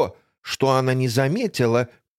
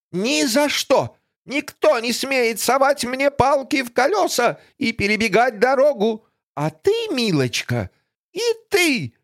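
furious villainess; 10 semitones higher than usual. Acted. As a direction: spit the refusal out. Griselda refuses, threatens. (злобная злодейка)

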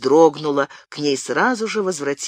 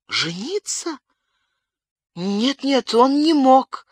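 distraught babbling; 10 semitones higher, slower than usual. A narrator's reading. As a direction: babble it out, half out of her mind. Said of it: "лепетала обезумевшая Бабетта".

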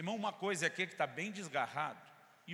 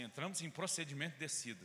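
pilot announcement; 4 dB quieter than usual. Retold or imitated. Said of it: "você tá voando e diz assim".

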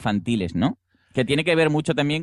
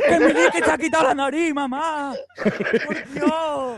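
put-on frightened child voice. Child crying to mom, acted.

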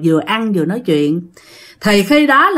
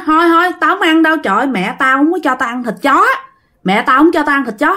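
hốt hoảng từ chối; 6 semitones higher, faster than usual. Retold or imitated. Boy refuses dog meat, alarmed.

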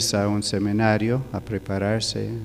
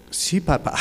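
higher, timid mock reply; half-frightened; 8 semitones higher than usual. Son-in-law answering his father, half-frightened. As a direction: answer as if slightly scared. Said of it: "Medio asustado".

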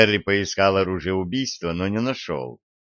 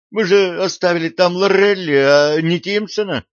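shocked; 8 semitones higher, 6 dB louder than usual. Acted. Shocked at news of body.

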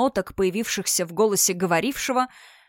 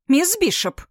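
sharp loud bark, pitched up; barked name; 8 semitones higher, 4 dB louder than usual. A narrator's reading. Governess barks the girl's name into her ear, loud. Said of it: "рявкнула ей на ухо гувернантка".

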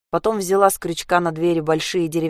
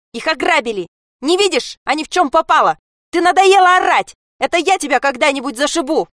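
furious yell; 9 semitones higher, 7 dB louder than usual. Acted. Sasha fights back, shouting.

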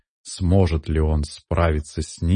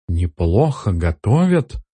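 shocked echo of the words; a mild stunned gasp; gasping disbelief; 2 semitones higher than usual. Acted. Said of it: "ахнула Лакюс". (ахнула, не веря)

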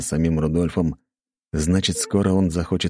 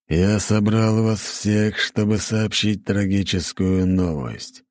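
slow, solemn royal announcement; demon king voice; 4 semitones higher, much slower than usual. Acted. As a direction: speak like a grave demon king. King addresses the lords.

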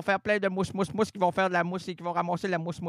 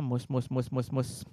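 calling a dog; 7 semitones lower, 4 dB quieter than usual. Pretend.

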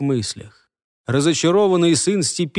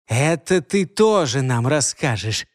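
hissed threat. Acted. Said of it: "прошипел младший кочевник".

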